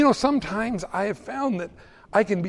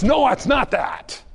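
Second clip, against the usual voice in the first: loud rebuttal; 4 semitones higher, 3 dB louder, slower than usual. Real, not acted. Rejecting joke about donut class.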